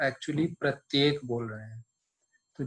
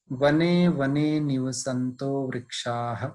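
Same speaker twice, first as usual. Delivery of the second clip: slow, measured shloka chant; Sanskrit recitation; slower than usual. Shown as a demonstration. Teacher recites the Sanskrit verse for students, slow chant. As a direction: recite the verse slowly and evenly. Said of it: "फिर देखते हैं".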